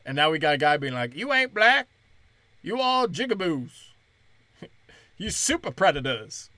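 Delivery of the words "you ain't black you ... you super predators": lightly voiced Biden in a black accent; a hint of a put-on accent, higher at first. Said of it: "I'm giving him a black voice".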